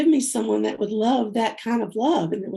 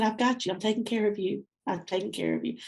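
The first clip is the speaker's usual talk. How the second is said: soft, fading reassurance; God's voice retold, soft and comforting; reassuring; 6 dB quieter than usual. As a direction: comfort her gently, getting quieter. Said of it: "And he said".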